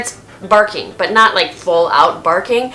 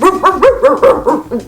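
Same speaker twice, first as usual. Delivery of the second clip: imitated sleep bark; 6 semitones higher, 4 dB louder than usual. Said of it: "Yeti just starts".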